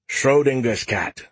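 high, slow, breezy AI voice; Skippy calling out. Acted. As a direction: call out cheerfully. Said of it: "Skippy called out".

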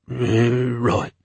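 odd creature voice; gnoll. A narrator's reading. Gnoll agreeing with the officer, creature voice. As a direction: grunt it like a gnoll.

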